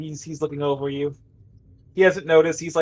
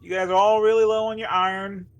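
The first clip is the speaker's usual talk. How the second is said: higher-pitched, hesitant medic voice; placating medic, pitched up; calming medic; 5 semitones higher than usual. Acted. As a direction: try to settle panicked patients in a lifted voice. Game master plays Mike calming patients.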